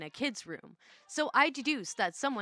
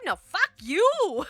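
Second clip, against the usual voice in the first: high, loud, drawn-out yell; angry outburst; 9 semitones higher, 8 dB louder, much slower than usual. Pretend. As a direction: yell it back, stretching YOU. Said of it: "that little outburst".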